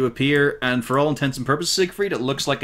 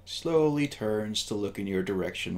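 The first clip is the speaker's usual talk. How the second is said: slow, measured scene setting; game master narration; 5 dB quieter, slower than usual. A narrator's reading. Game master showing the player a sagging head, slow eerie narration. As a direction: describe the horror slowly and quietly.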